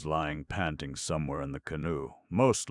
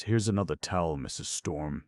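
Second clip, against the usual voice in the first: brusque; 3 semitones higher, 4 dB louder than usual. Acted. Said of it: "said Shirley brusquely".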